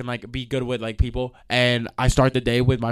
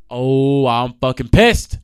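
angry; 6 dB louder, much slower than usual. Real, not acted. Ranting about the driver.

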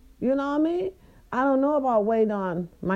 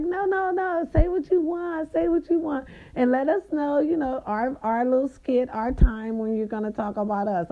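a mock-sweet reply, pitched way up; high sugary voice; 7 semitones higher than usual. Answering the men, mock-sweet and high. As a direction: put on a girly charming voice.

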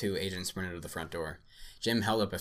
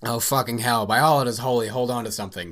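panicked scream while swerving; 4 semitones higher, 9 dB louder than usual. Acted. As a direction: scream it, bracing for impact. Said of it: "Sam screamed".

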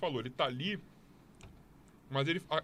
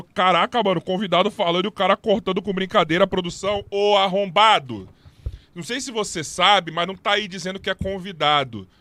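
loud indignant; 6 dB louder than usual. Real, not acted. Answers a viewer's paid comment.

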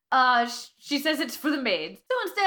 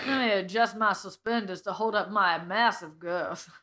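hammed-up Southern gentleman; 5 semitones lower than usual. Playing Colonel Sanders character.

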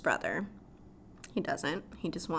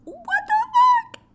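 high, loud disbelieving what the fuck; shocked shriek; 11 dB louder, much slower than usual. Retold or imitated. Watching the mansion burn, shrieking in disbelief. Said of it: "And I was like".

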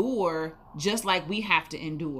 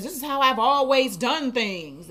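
stubborn person; 5 semitones higher, 5 dB louder than usual. Retold or imitated. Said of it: "heard of somebody that says".

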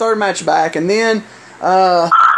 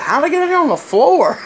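laughing confused; 8 semitones higher than usual. Retold or imitated. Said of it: "I was like".

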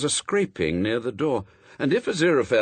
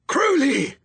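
high, strained hissing yell; urgent, loud stage hiss; hissed shout; 7 dB louder than usual. A narrator's reading. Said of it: "tried to hiss and shout at the same time".

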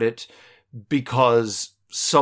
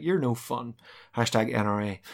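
mock sulky; 2 semitones lower, 6 dB quieter than usual. Voicing sulking Sulu.

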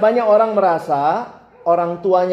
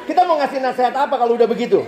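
laughing; 8 semitones higher than usual. Real, not acted. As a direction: laugh then higher, laughing questions. Preacher laughs at student's stubbornness. (tertawa bingung lalu bertanya)

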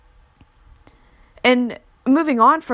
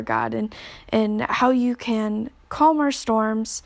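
closing prayer. Acted. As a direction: pray gently over the listeners.

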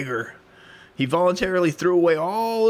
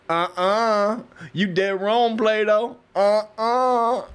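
higher, comic contradiction; argumentative Diogenes; 6 semitones higher, 3 dB louder, much slower than usual. Acted. Homeless philosopher disputes his teacher in class, high mock argument. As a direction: contradict him with mock indignation. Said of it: "He argued loudly with Plato".

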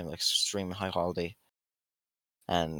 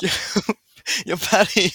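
calling out; 9 semitones higher, 11 dB louder than usual. Retold or imitated.

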